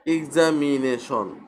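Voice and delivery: এক্সামিনেশন slowly measured, ig-za-mi-ne-shon; syllable by syllable. Shown as a demonstration. Teacher introduces a polysyllable example, এক্সামিনেশন said slowly by syllables. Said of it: "এখানে চারটা syllable দেখা যাচ্ছে".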